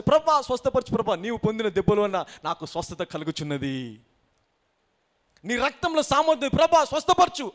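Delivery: acted fervent plea for healing; pleading prayer. Sick believer begging the Lord for healing, pleading. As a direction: cry out in prayer, swelling at the end.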